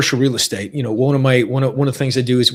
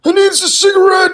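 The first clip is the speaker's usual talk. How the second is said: desperate craving; 5 dB louder than usual. Retold or imitated. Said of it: "I'm like".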